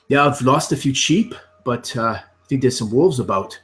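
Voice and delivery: hint of an easygoing country farmer; lightly voiced farmer. Farmer tells visiting hobbit how things are, lightly voiced farmer. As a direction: play a farmer chatting about his fields, lightly.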